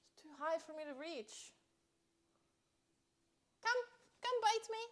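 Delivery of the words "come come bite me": mock seductive taunt. Real, not acted. Taunting mosquito to bite her.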